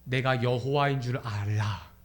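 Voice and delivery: low, slow solemn decree; measured divine pronouncement; God speaking. Acted. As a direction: intone it low and very slowly. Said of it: "말씀하는 거예요".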